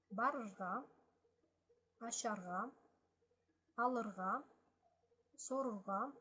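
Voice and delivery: each Balkar infinitive said clearly, with a pause after each; Balkar verbs read aloud. Shown as a demonstration. Teacher reads the verb list to learners, in careful Balkar. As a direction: spell out each verb with its ending. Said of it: "So I'm reading this again".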